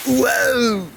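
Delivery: sudden high startled whoa; surprised whoa. Real, not acted. Filming a big wave, a real startled whoa. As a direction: caught off guard by the wave.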